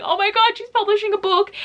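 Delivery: high-pitched excited outburst; beyond excited. Retold or imitated. Reviewer reliving news of a favourite reviewer's book, beyond excited. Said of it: "I was so excited, like, so beyond excited".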